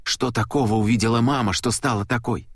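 Luke's voice rising high, pleading and near tears; trembling voice. A narrator's reading. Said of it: "Теперь голос Луки дрожал". (дрожащий, срывающийся голос мальчика)

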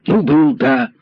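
put-on rattling boy. A narrator's reading. Lame boy rattling off excuses to the commissar. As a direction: gabble the admission fast. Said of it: "снова затараторил мальчик".

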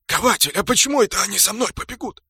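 high-pitched suspicious question; wary orc. A narrator's reading. Orc asks smith why he'd be chased, suspicious.

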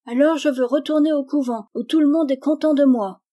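put-on high, loud child's protest; defiant child. A narrator's reading. Daughter threatens mother with returning to convent, high defiant protest. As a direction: pitch it up like an aggrieved daughter.

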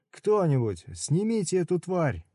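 high, desperate cry for help; frantic pleading shout; panicked yell. Acted. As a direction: beg them to get it off you. Man begging to remove caterpillar.

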